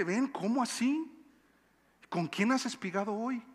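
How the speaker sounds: pepper her with amazed questions; surprised. Acted. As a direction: Naomi quizzing Ruth in astonishment. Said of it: "Estás sorprendida".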